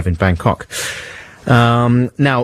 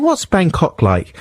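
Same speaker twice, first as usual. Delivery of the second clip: slow tourist voice; 8 semitones higher, slower than usual. Retold or imitated. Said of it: "accent I did there".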